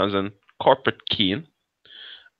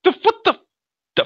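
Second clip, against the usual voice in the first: laughing; 6 dB louder than usual. Real, not acted. Laughing, trying to recall Daleks.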